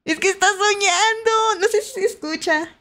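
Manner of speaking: high-pitched doting coo; tender cooing. Real, not acted. Streamer to viewers about her dreaming dog, tender cooing. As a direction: coo over a sleeping pet.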